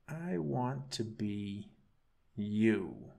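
slow, drawn-out and strange; creepy monster wish. Acted. Monster tells his captive slowly what he wants. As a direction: let each word crawl out slowly.

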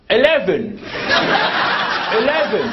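a hint of English accent. Talking to the lift in a mild English accent. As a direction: try to sound English. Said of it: "Try an English accent".

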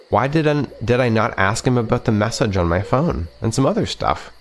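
steady read-aloud narration of a game's text; story narration. A narrator's reading. Gamer narrating the visual novel to viewers, steady storytelling.

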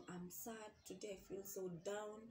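mildly downcast, voice dropped in volume; confiding sadness. Acted. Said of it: "kind of people you tell them".

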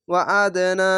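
ওয়া আদ না with a small echo after দ; qalqala. Shown as a demonstration. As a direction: bounce the দ in আদ. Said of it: "আমি কলকলাই পড়লাম". (আদ-এর দ-এ কলকলার প্রতিধ্বনি)

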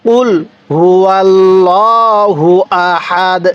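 word by word, drawn out; slow recitation. Shown as a demonstration. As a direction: recite slowly for learners to repeat. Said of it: "আরেকবার".

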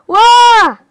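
loud, high amazed whoa; surprised whoa. Real, not acted. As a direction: blurt it out in surprise. Presses button in game.

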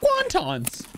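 yelling across the room. Real, not acted. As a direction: shout it across the house. Calling to someone upstairs.

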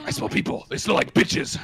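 creepy whisper. Acted.

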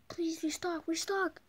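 mock crying plea; begging with a fake sob; pleading. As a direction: whimper the request. Begging the shopkeeper.

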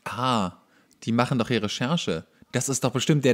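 ordinary delivery

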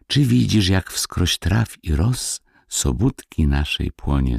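singsong verse between hushed refrains; quiet ringing song. A narrator's reading. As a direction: chant it lightly like tiny ringing voices. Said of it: "śpiew dzwoniący, cichy".

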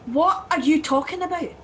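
loud, exasperated question; shouting. Acted. Driver demanding sense from passenger, shouting. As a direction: raise your voice in bafflement. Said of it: "Stop shouting!".

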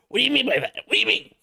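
gasp, then high-pitched mock freak-out; mock meltdown. Imitating a touchy friend having a mental breakdown, mock meltdown. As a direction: squeal it in exaggerated hysterical offense. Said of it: "a mental breakdown and go wild".

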